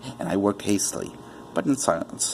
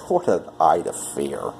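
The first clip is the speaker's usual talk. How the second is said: mocking laugh; 5 semitones lower than usual. Madman mocks his own fear.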